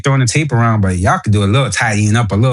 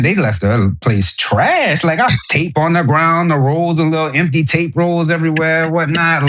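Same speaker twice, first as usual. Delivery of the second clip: emotional New Orleans accent, higher-pitched; 5 semitones higher than usual. Real, not acted. Complaining about messy movers, in a New Orleans accent. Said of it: "I hear that New Orleans accent".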